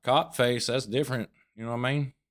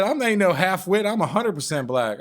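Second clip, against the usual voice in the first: mock woman's voice; 7 semitones higher, 4 dB louder than usual. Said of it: "she said".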